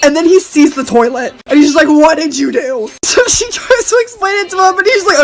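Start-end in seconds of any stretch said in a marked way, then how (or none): 1.9-2.9 slow, stretched retold question; stern house owner. House owner seeing the toilet, slow stern question. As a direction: imitate the owner, slowly, in your lower register.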